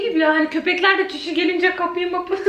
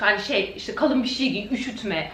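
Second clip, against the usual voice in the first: put-on scolding boyfriend; 8 semitones lower, 6 dB quieter than usual. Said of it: "arayıp azarlamak".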